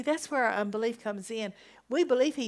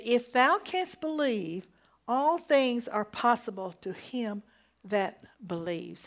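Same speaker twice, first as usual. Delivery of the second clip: forceful quote; slower than usual. Acted. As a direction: declare it boldly from the pulpit. Preacher quoting Jesus with force.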